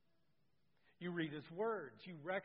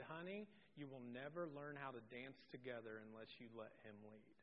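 much softer, lower confidential advice; gentle aside; 7 semitones lower, 13 dB quieter than usual. Retold or imitated. Scene: instructor quietly advising wife, much softer and lower. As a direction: lean in and tell her kindly. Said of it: "and she said".

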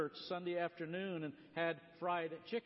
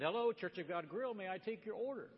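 lightly voiced chirpy order-taker; cheery phone greeting; 4 semitones higher than usual. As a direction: imitate a cheery restaurant greeting, just a touch. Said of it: "a very cheery voice".

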